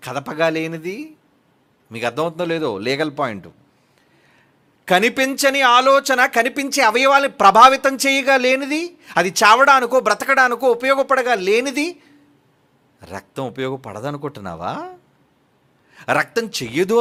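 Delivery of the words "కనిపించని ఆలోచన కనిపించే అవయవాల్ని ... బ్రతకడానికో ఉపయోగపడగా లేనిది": higher and louder, driving the point home; rising, emphatic proclamation; forceful preaching. Shown as a demonstration. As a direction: push it out with full preaching force. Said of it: "preacher repeats key claim louder".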